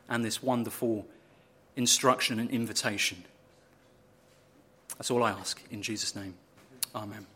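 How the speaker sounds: soft, hushed opening prayer. Acted. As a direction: pray it gently before the reading. Opening prayer before the sermon.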